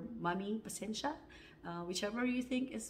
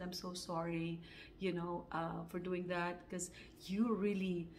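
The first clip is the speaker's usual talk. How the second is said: retold soft apology; 2 semitones lower, 6 dB quieter than usual.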